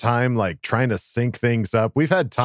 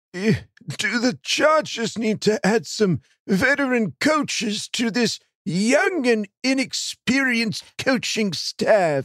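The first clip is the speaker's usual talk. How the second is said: put-on very high-pitched elderly old man voice; 11 semitones higher than usual. Host reading a listener's question aloud, in an old man voice. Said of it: "I love the old man voice".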